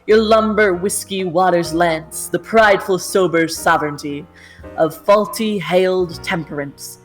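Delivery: grand, measured poetry reading; poem recital. Acted. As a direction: declaim it like an ode to a river.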